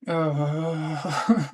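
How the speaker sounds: long exasperated groan; drawn-out fed-up "uh"; angry groan. Real, not acted. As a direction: groan out the frustration. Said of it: "you can hear how angry I'm getting".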